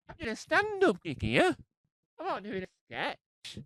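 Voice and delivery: high, exasperated protest; indignant protest. Acted. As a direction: insist on it, offended. Indignant about show name.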